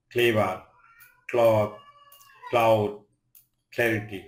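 ক্লাস, ক্লিন opened on a KL cluster. Shown as a demonstration. Teacher listing CL examples, ক্লাস and ক্লিন said with KL. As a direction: recite ক্লাস, ক্লিন singly with hard K before L. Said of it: "সি এর উচ্চারণ ক হয়".

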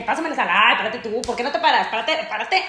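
ordinary talk, nothing marked

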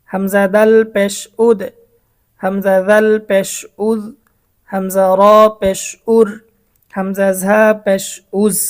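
measured Quran-class drill cadence; Arabic letter spelling drill. Shown as a demonstration. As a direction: spell out hamza plus letter plus pesh, then the sound. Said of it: "আপনারা খেয়াল করে আমার সাথে সাথে পড়বেন".

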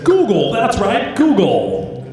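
punchy recorded sales greeting, a little mock; robocall voice. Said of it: "this voice says".

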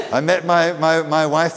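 laughing. Real, not acted. Laughs about quick marriage.

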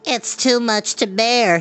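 high, slow whiny complaint; a hint of a bitter former giant; complaining cry. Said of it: "he cried".

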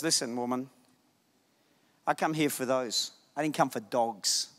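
soft, low mock rebuke; gentle Jesus. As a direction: say it quietly, almost tender. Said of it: "the Lamb, goes".

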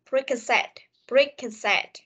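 "preconcept", beak-and-said run into one unit; linked words. Shown as a demonstration. Teacher drills the joined words, "preconcept" linked. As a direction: link three words as "preconcept". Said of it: "Mình sẽ nối đây".

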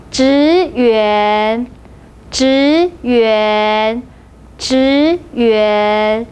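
职员 said slowly with both syllables drawn out; model pronunciation. Shown as a demonstration. Teacher models a Mandarin word for learners, 职员 drawn out clearly. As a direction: give 职员 as two long, evenly voiced syllables. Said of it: "repeat after me three times".

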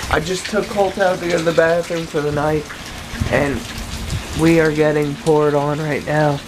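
talking with a retainer in; slightly lisped retainer speech; wearing a retainer. Real, not acted. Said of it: "I have my retainers in, so I'm gonna talk and sound kinda weird".

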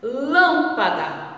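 "Lâmpada" slow with a closed nasal LÂM; closed sound demo. Shown as a demonstration. Teacher shows pupils the closed sound, slowly. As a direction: model "Lâmpada" with the mouth closing. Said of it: "Observe aí".

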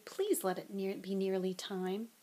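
soft, slowing inner plea; miserably. A narrator's reading. Harry begging silently for detention to end, miserably. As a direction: plead quietly to yourself. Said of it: "Harry thought miserably".

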